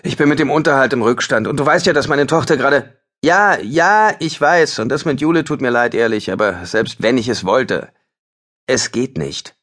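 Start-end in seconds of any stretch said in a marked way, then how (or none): 0.0-6.3 higher, hurried pleading voice of Ben; pleading musician. Acted. Ben begs Lars to keep him, higher and hurried. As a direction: beg a bandmate for the job, rushing.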